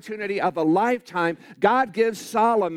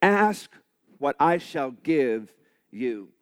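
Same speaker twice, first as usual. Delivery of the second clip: slow, low, solemn divine voice; God; 5 semitones lower, slower than usual. Retold or imitated. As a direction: speak it slowly and low, as God. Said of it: "Listen to this question again".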